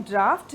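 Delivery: ड्राफ्ट ending in an F-T sound; draught pronounced draft. Shown as a demonstration. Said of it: "इसको भी वैसे ही pronounce करते हैं". (ड्राफ्ट, अंत में फ़्ट की आवाज़)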